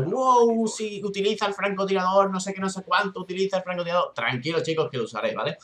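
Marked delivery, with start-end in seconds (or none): 0.0-4.1 imitating viewers. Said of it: "me lo estaréis preguntando".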